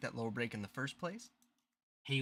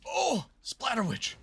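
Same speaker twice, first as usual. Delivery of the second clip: drawn-out mock cry, higher; mock wail; 12 semitones higher, 5 dB louder, slower than usual. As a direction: whine it slowly like a lament. Dramatic wail at the name.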